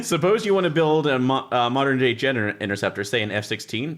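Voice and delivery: lightly performed reading of rulebook prose; rulebook read aloud. Acted. Reading the rulebook's wry passage aloud to the group. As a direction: read the book's wry text out to the table.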